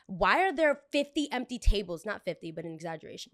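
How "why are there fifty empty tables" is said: mock indignant guest. Angry guest quoted.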